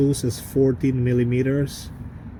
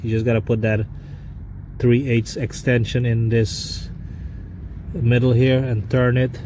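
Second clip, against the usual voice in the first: talking while lying under a car; strained voice from under the car. Real, not acted. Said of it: "so I'm under the car".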